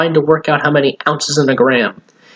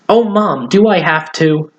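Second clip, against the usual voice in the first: put-on whiny boy; 5 semitones higher than usual. Billy whining at mom.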